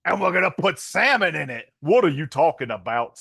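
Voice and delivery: a hint of Keanu's bad Jacksonville accent. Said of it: "he's kinda turning into Forrest Gump".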